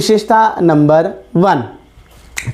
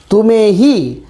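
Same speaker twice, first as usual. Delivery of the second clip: ही stressed with a falling tune. Shown as a demonstration. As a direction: hit ही hard after तुम्हें. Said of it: "ही शब्द का प्रयोग किया तो इसने किस पर जोर". ("ही" पर ज़ोर)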